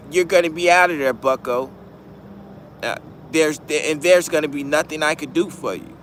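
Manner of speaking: a mild put-on proper lawyer voice, brisk on "buddy"; white voice. Defense lawyer warning his client about trial, mild put-on white voice. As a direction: play the smooth lawyer giving a warning. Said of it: "you gotta put your white voice on".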